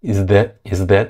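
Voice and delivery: is that with a dropped, weak th. Shown as a demonstration. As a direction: say is that lazily, no clear th. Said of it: "이게 아니라 그냥 is that". (th 약하게 is that)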